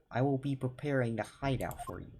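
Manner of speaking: put-on the waiter's line redone in a Russian accent; a hammed-up Russian waiter accent; Russian accent, second try. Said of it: "how do I do a Russian accent?".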